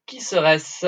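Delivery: whispered echo of the question; whispering. Acted. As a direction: whisper it to yourself, thinking. Guest echoes question to himself.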